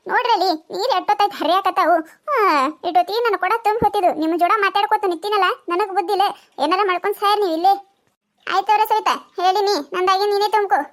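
a lightly voiced village woman squabbling over water pots; quarrelling village woman. A village woman argues with Sharadakka over the water pots, lightly voiced and squabbling. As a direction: bicker like a neighbour at the tap, only lightly voiced.

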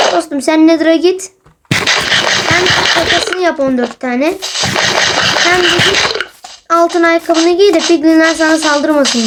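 lightly voiced game advising the player; game's voice. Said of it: "oyun resmen diyor ki sana". (oyunun sesiyle hafif taklit, dostça öğüt)

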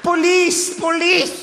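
high-pitched cry for the police; mock screaming. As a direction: shriek for help as an outraged lady. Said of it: "Gritaba, weón". (gritos agudos de señora pidiendo auxilio)

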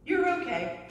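high, mock-soothing "okay"; brushing off a crying friend; soothing hush-up. Person to someone crying, mock-soothing. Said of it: "and then you said".

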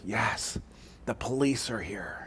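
put-on hushed little kid whisper; a child whispering into the phone; small child whispering. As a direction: whisper like a scared four-year-old. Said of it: "the whispering voice says".

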